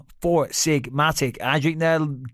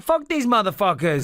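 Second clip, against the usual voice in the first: higher-pitched mock gloating; Robert Whittaker; 5 semitones higher than usual. Fighter happy that fellow Australians lost, mock gloating. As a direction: imitate a fighter crowing over his countrymen. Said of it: "Because he's like".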